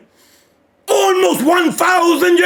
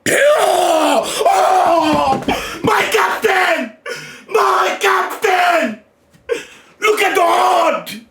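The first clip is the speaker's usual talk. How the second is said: hyped shouting; 3 semitones higher, much slower than usual. Real, not acted. Fan yelling at the manga page in real delight.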